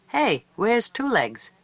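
high, slow calling out; coyote pups calling. A narrator's reading. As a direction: call out for the missing child. Pups ask again.

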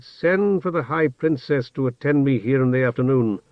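icy royal command; icy, clipped order to a servant; cold fury. Acted. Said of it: "returned his stare icily and said".

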